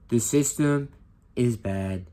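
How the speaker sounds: punchy, loud Trump voice stressing "system"; Trump impression. Teacher imitating Trump to the class, loud and emphatic. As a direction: hammer "The system" like a rally speech. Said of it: "Now I'm gonna do a Trump impression".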